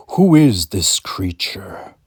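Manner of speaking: an eerie slow whisper. Acted. God whispering to Kirk, slow and eerie. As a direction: whisper it slowly, menacing.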